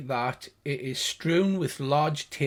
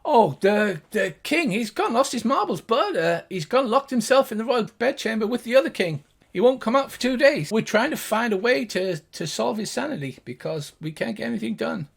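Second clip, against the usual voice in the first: a lightly higher, fretful gnome; 6 semitones higher than usual. Acted. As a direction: talk like a worried little gnome. Gnome voiced by GM.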